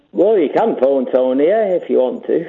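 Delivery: lightly put-on comic voice; stupid voice. Caller still denying he is Tony, stupid voice. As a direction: stay in a mild disguise. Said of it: "Can you stop doing the stupid voice".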